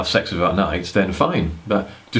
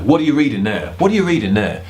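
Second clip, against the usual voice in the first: in-your-face question; 4 semitones higher than usual. Retold or imitated. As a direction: get right in her face with it. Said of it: "when you come up in a face".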